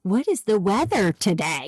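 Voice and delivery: "What is the weather today?" said deliberately, as a careful command; very specific wording. Shown as a demonstration. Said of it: "you have to very specifically say".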